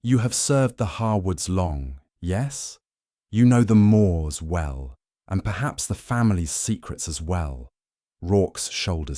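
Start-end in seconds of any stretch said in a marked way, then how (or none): 0.0-7.7 probing. Acted. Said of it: "his tone conversational yet probing".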